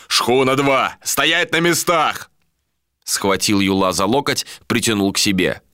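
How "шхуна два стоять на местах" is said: raised, higher commanding call; yelled orders. A narrator's reading. Captain orders second schooner to stay, raised yell. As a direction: call out to hold them in place. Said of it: "заорал Иштар".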